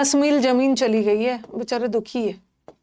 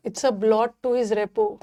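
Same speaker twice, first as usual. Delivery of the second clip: slow dictation; much slower than usual. Shown as a demonstration. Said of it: "dictated example sentence".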